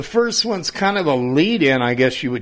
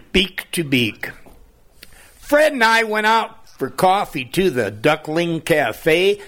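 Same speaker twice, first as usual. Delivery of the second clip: put-on reading to children; 2 semitones higher than usual. Reads children's poem.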